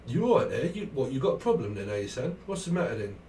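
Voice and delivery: mock London hard man; London accent. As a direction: needle someone in London talk. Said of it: "That's more London".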